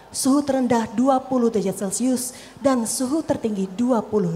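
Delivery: measured formal weather bulletin; low formal MC. Shown as a demonstration. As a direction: read it like a protocol announcer in low tone. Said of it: "yang low tone ini, ... lebih rendah". (pembawa acara formal bernada rendah)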